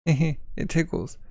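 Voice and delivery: slow words squeezed out through laughter; high, slow, giggly protest; laughing, tickled. Acted. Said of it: "Hey, what's so funny?".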